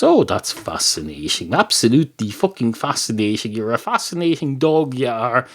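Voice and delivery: mock fascination, lightly acted; sarcastic. Man answering the dog's sandwich recipe, sarcastic. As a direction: feign being impressed by the speaker. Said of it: "are you being sarcastic".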